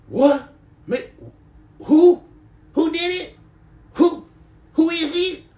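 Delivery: high, loud, startled squeak of panic. Retold or imitated. Man in a grocery store, startled to be called daddy, shrieks high. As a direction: yelp in mock panic like a cornered man. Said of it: "And I'm like".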